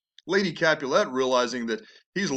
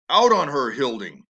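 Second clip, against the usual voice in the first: angry outburst; 6 dB louder than usual. Acted.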